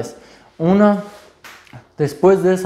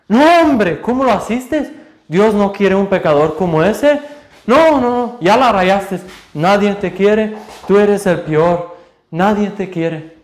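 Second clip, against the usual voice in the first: Satan's condemning voice; 6 semitones higher than usual. Retold or imitated. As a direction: berate them after they fall. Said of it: "Y luego lo haces".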